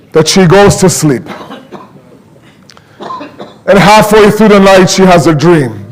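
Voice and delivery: sombre mourning narration with long pauses; grave, measured sermon storytelling; solemn lament. Real, not acted. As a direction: let each phrase sink in, grieving.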